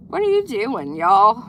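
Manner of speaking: calling out. Real, not acted. Calling out to kids nearby.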